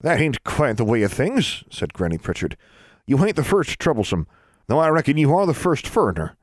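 lightly voiced Ozark granny; a hint of an old hill woman; country granny voice. A narrator's reading. Granny Pritchard speaks.

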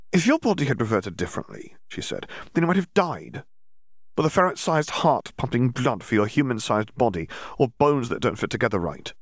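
brisk know-it-all, lightly voiced young witch; lecturing Hermione. Hermione lecturing Dimitri on transfiguration, lightly voiced. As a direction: explain it like the cleverest girl in class.

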